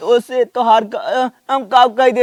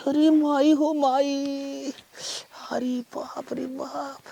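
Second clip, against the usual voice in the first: mock wailing; 2 semitones higher, slower than usual. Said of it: "कैसा रोवत है साहब जी?".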